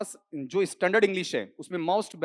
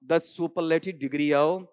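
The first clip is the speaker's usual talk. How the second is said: slow dictation; much slower than usual. Shown as a demonstration. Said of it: "बोलो क्या कहा?".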